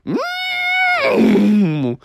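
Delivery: very high drawn-out hum; long high hum trailing away; departing noise. Acted. Benny the Bull takes off, high humming whoosh.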